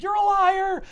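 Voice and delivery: high-pitched indignant accusation; hammed-up, high protest; mock accusation. Acted accusation at the devil.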